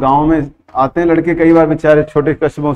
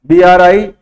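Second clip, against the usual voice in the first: "बी आर आई" letter by letter, a bit louder; spelling out; 4 dB louder, slower than usual. Shown as a demonstration. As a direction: spell it out clearly. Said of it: "अब मैंने spelling बताई". (अक्षर-अक्षर ज़ोर से)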